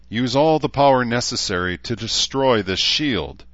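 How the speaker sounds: lightly declaimed command to a machine; formal invocation. A narrator's reading. Villain's formal command to computer.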